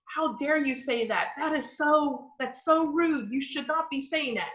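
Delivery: put-on mildly scandalized telling-off of a child; horrified scolding. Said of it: "I can see horror on her face".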